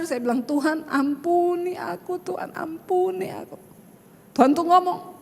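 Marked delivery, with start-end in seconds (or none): 0.4-2.2 soft, slow, teary plea for forgiveness; whisper-soft tearful plea to God; retelling a tearful prayer to God, soft and slow. Retold or imitated. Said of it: "Tiba-tiba air mata saya menetes". 2.2-3.5 an even softer repeat of the teary plea; fading, barely voiced plea for mercy; retelling the repeated prayer, softer still and tearful. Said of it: "Tiba-tiba air mata saya mengalir".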